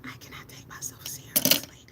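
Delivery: unvoiced giggly whisper. Real, not acted. To the stream, whispering amused at her own look. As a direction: let it slip out under your breath.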